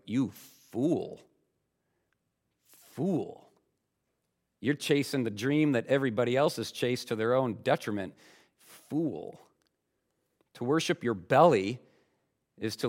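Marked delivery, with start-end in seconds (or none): 0.0-9.4 God calling fool. Retold or imitated. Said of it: "God's from heaven going".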